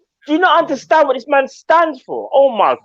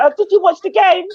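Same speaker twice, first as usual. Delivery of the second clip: imitating boss; 8 semitones higher than usual. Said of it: "My boss is gonna be like".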